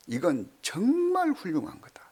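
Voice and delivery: whispered, admiring aside; hushed whisper. Acted. Pastor confiding to congregation, in a whisper. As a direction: breathe it like a secret.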